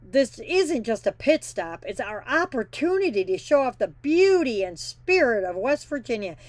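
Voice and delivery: mock-earnest politician read, sarcastic; snarky quoting. Trucker mocking the governor's glowing quote, snarky. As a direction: read it like an overblown speech you don't buy. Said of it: "reason why I'm talking like this".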